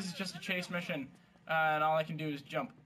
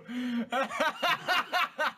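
cracking up, pitch raised; long bout of giggling; high laugh; 6 semitones higher than usual. Real, not acted. Laughing at running joke.

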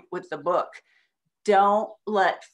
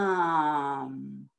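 stretched slow mom, lower; very slowly; 6 semitones lower than usual. Shown as a demonstration. Parent showing a child how to say it, very slowly. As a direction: draw the word out like a turtle. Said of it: "very slowly like a turtle".

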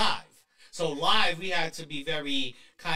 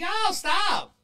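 surprised; 6 dB louder than usual. Retold or imitated. Reacting to highlighted name.

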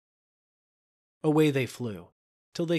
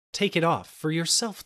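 sharp, loud and higher; angry; 7 semitones higher, 4 dB louder than usual. A narrator's reading. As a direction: snap it out in anger. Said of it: "who now was so angry".

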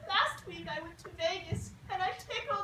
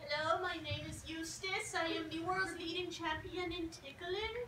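soft eerie voice; 5 dB quieter than usual. Acted. Improv tickler character.

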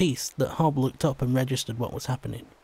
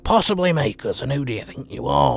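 snarl through gritted teeth. Acted. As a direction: growl it at the intruder through clenched teeth. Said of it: "he snarled through gritted teeth".

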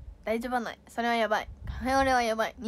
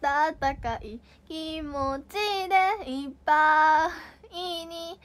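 halting Nagoya dialect; 4 semitones higher, much slower than usual. Shown as a demonstration. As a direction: stumble through a Nagoya dialect confession. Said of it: "名古屋弁がたどたどしくない？".

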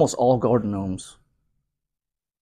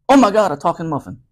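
shocked muffin, higher and louder; telling a dad joke; 9 semitones higher, 11 dB louder than usual. Acted. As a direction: gasp it out in mock shock.

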